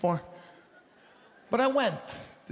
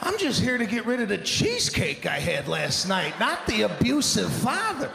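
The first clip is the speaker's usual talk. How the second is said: mock outraged shout; 5 semitones higher than usual. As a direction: build to an incredulous yell. Outraged reaction to the instructor.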